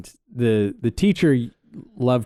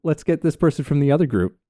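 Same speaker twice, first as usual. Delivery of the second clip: bossy acting teacher; 5 semitones higher than usual. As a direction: announce the partner swap like a brisk teacher. Acting teacher swapping scene partners.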